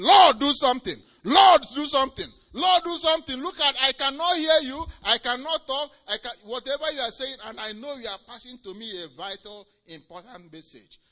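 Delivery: high, loud frantic cry to the Lord; panicked plea. Retold or imitated. Hagin pleading with the Lord in panic, frantic cry. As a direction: beg in panic, then fading. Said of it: "he was panicking and saying".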